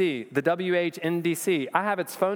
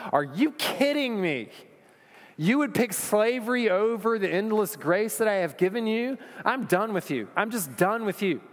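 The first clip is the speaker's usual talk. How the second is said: higher, incredulous, fed-up divine voice; be God losing patience with grumblers; exasperated God; 6 semitones higher than usual. Acted. God rebukes the grumbling Israelites, exasperated and raised.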